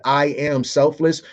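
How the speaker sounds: slow mocking child's claim; mocking child again. Parent mimics the child slowly, mockingly. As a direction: drag it out, mocking the kid. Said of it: "talking like that".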